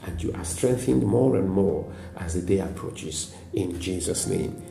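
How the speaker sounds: soft, earnest prayer for the congregation; closing prayer. Real, not acted. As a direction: pray over them gently, winding down to amen. Pastor prays for the listeners.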